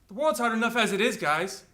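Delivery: exasperated complaint. Acted. Complaint, first and milder take.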